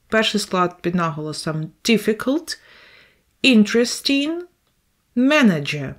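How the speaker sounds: difficult, interesting, manager each stressed on the first syllable; teacher modelling first-syllable stress. Shown as a demonstration. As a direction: lean on the opening syllable of each word. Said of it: "the first syllable is under the stress".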